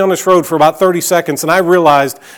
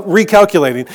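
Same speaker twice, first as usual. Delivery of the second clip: lightly attempted British GPS voice; a hint of badly faked British; bad British accent; 2 semitones higher than usual. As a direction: mimic a British sat-nav announcement. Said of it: "I can't do a British accent".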